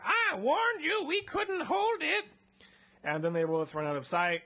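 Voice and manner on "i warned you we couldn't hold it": much higher, slower, frightened voice; a doctor backing away in terror; high, frantic mock fear; panicked scientist. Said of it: "He's like".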